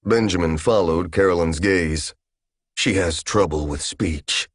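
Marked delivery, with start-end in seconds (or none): 2.7-4.5 cold. Acted. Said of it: "he said coldly".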